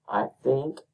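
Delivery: "I think" set apart, THINK stressed and rising; iambic stress. Shown as a demonstration. Teacher showing the third iamb, stress on THINK. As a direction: lean on "think" after a lighter "I". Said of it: "third, I know".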